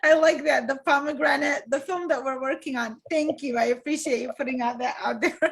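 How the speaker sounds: bright laughing delight, pitch up; light up with real joy at the question; beaming, laughing thanks; delighted and energized. Real, not acted. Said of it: "my smile widened and I got all energetic".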